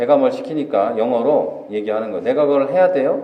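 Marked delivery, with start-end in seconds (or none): 2.2-3.2 pushy, demanding, challenging, argumentative tone. Retelling how your nephew questioned being told to do something, mock-challenging question. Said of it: "이렇게 따지듯이 묻더라는 거죠".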